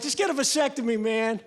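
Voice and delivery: friend's casual advice. Retold or imitated. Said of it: "I got a friend, he's like".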